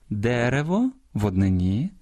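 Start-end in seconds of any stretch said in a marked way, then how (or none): 0.1-0.9 "Дерево" stressed on the first syllable, дЕрево. Shown as a demonstration. Host showing singular stress, "Дерево" with first-syllable stress. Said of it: "зберігають наголос однини".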